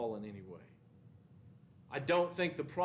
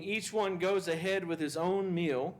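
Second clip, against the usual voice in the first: reading Paul's letter aloud; 4 semitones higher than usual. Retold or imitated. Teacher quoting Paul to his class, slightly raised reading. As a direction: proclaim it like a letter read to the church. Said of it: "I, I want you to understand".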